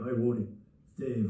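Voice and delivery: loud imitated New England hello; lightly put-on New England accent. Club owner calling from Vermont, New England accent. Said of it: "he got that New England accent".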